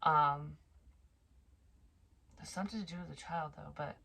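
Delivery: normal talking voice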